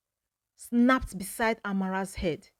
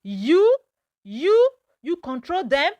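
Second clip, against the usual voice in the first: high, loud, stammering in fear; frightened stammer; 6 semitones higher, 6 dB louder than usual. A narrator's reading. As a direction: stutter it out, terrified. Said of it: "face twisted in fear".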